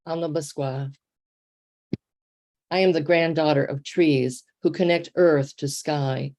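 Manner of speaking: measured, emphatic poem recital; poetry reading. Acted. Poet reading her new poem to an online audience, poetry reading. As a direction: read the poem out firmly, line by line.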